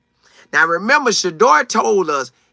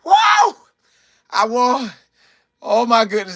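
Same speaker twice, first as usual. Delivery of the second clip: high whooping cry of surprise; mock excited shout; 7 semitones higher than usual. Host mimicking Kevin, a sudden high whoop. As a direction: yelp it like a stunned winner. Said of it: "Kevin was like".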